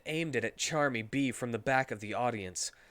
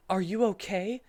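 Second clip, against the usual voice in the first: lightly voiced Rouge; 6 semitones higher than usual. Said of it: "said Rouge".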